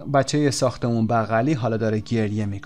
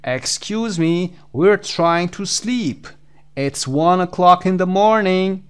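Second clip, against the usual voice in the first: slow, higher-pitched complaint to noisy neighbours; mild acted shout; 5 semitones higher, much slower than usual. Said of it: "داد میکشه این آقا". (داد زدن نمایشی و ملایم)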